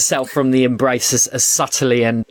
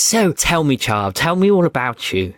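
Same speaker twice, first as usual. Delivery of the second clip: higher, eager royal voice; eager queen voice; 4 semitones higher than usual. Acted. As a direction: ask warmly like an eager queen. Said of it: "she says".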